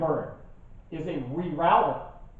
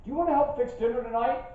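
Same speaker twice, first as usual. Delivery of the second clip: wife asking; 8 semitones higher, faster than usual. Retold or imitated. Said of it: "and my wife says".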